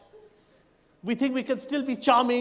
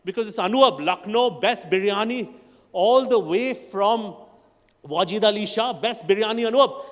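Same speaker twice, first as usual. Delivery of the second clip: Lucknow biryani pride; 3 semitones lower than usual. Retold or imitated. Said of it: "I love the way they speak about their biryani".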